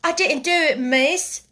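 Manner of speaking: loud, flustered maid's denial; anxious protest. A narrator's reading. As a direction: protest to the young mistress. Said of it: "protested Becky".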